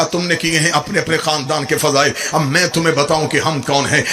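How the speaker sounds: low, steady proclamation of lineage; solemn declaration. Acted. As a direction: announce each line with gravity. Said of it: "میرے مولا حسن نے کہا". (سنجیدہ اعلان)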